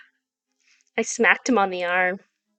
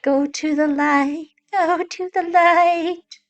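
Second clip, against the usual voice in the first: high, drawn-out little alien chant; slow, awed alien voice, pitched up; Toy Story aliens; 7 semitones higher, 3 dB louder, slower than usual. Retold or imitated. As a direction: intone it like a tiny alien. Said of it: "Toy Story with the little aliens".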